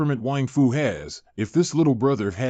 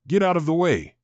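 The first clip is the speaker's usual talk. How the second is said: shoving through; 5 semitones higher than usual. Acted. Pushing through the crowd.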